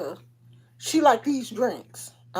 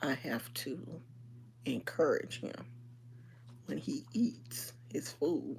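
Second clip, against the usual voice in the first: very quiet, soft, hushed whispered aside; 8 semitones lower, 15 dB quieter than usual. Explaining quietly so the dog won't hear: whispering. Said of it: "I know I'm whispering".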